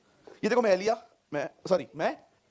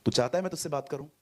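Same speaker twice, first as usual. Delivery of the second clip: voice of God; 2 semitones lower than usual. Retold or imitated. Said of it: "खुदा ने कहा".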